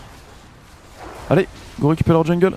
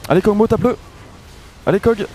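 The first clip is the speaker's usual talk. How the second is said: excited cheering; 8 semitones higher than usual. Real, not acted. Cheering a teammate mid-fight.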